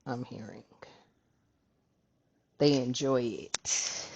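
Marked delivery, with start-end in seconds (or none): 2.6-4.1 drawn out slowly, lower in pitch; slow, low emphasis; slow, deliberate. Real, not acted. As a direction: savor each word, low and slow. Reader dwells on the point.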